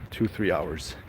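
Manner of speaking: ordinary talk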